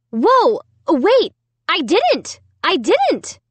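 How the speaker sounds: high, loud frantic denial. A narrator's reading. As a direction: panic and deny it. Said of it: "I cried frantically".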